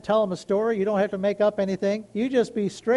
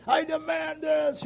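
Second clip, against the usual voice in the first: mock demanding; 8 semitones higher, slower than usual. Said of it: "upset and yelling".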